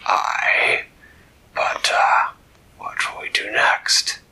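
loud pirate captain; salty captain asking what next; old sea captain. Acted. Captain character voice.

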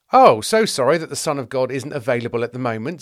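loud mock-sorry sarcasm; sarcastic apology. Disciple answers an impatient rich man, sarcastic. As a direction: apologise with heavy, insincere emphasis.

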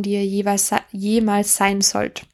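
numb mouth, slightly slurred words; numb from the dentist. Real, not acted. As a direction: talk through a numb mouth after the dentist. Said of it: "ich kann nicht richtig sprechen".

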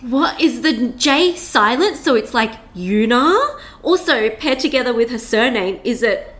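imagined baffled listener sounding out a name; drawn-out, querying guesses at an odd name; puzzled questioning. Acted. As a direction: puzzle over it slowly, ending on a question. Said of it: "questions that popped into your head".

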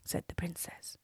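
high, sweet princess voice; cartoon princess. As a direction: play the innocent princess. Princess answering the giant.

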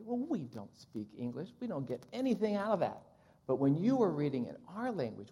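animated, lively retelling of a translator's news; excited retelling. Retold or imitated. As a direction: eagerly pass on great news, voice swinging up. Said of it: "she came back really excited".

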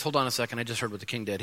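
hushed alarm. Retold or imitated.

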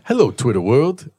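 light impersonation in a greeting; lightly put-on public figure's hello. Showing the cohost his only impression, lightly put-on O J voice. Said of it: "my only O J thing I can do is".

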